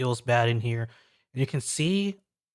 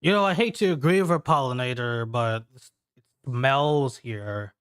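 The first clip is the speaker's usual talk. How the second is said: companion agreeing. Acted. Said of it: "she goes".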